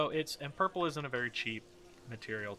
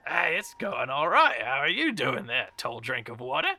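lightly voiced flirt in a put-on accent; flirty tavern woman; 2 semitones higher, 6 dB louder than usual. Woman greeting a newcomer at the party, lightly voiced flirt. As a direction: greet the stranger with playful flirtation. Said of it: "smacks him a little bit and says".

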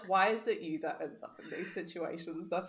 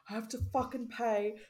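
mock-angry rant, higher and louder; retold anger; 4 semitones higher, 5 dB louder than usual. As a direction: imitate someone griping about money. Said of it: "he was getting so angry".

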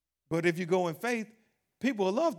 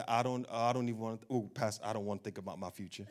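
mock fearful churchgoer; 7 semitones lower, 7 dB quieter than usual. Mock fearful congregant to pastor.

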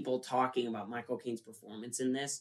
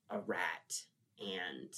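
whisper; 5 semitones lower, 10 dB quieter than usual. Real, not acted. Whispered aside.

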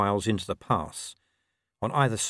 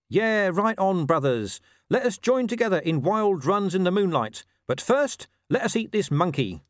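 dog imagining wolves hailing him, mocking and higher; mock wolf brotherhood; 9 semitones higher than usual. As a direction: play a phony hippie wolf.

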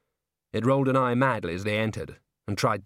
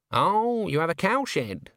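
higher-pitched show of interest; keen interest; 6 semitones higher, slower than usual. A narrator's reading. Witch hears the innkeeper mention his cow, keenly interested. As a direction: start high on "Oh", as if suddenly interested. Granny seizes on the cowshed.

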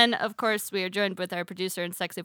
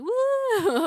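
excited woo; 14 semitones higher than usual. Retold or imitated. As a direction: whoop like a girl at a show. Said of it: "I just have to be like".

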